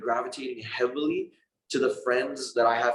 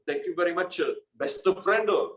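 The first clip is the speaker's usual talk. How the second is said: higher, slowed anime-style thank-you; 6 semitones higher than usual. Retold or imitated. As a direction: play the slapped anime friend, cheerfully grateful. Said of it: "in an anime voice".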